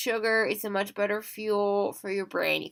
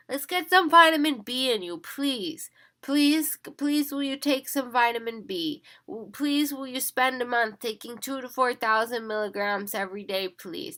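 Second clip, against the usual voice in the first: pleading; 3 semitones higher than usual. Real, not acted. Begging viewers to take vitamins.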